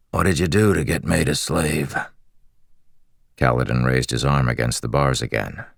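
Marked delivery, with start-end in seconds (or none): 0.1-2.0 lightly raspy, friendly prisoner; a hint of rasp, curious and chatty; raspy slave voice. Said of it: "He had a raspy voice".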